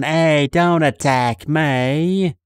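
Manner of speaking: put-on slow, loud thick New York accent. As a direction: do a tough New York guy. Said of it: "a guy with a really thick New York accent".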